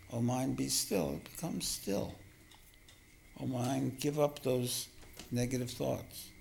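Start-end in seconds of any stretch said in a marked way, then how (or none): 0.1-1.1 calm, gentle coaxing; gentle appeal. Shown as a demonstration. Teacher showing how he asks his mind for stillness, gently. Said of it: "with great love and great gentleness". 3.4-6.3 calm, measured coaxing; gentle appeal. Shown as a demonstration. Teacher asking his mind to drop negative thoughts, gently. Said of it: "with great love and great gentleness".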